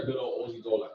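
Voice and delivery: playful mock Australian accent; put-on Aussie accent. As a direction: put on a light Aussie twang. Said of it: "Sorry, that's my accent".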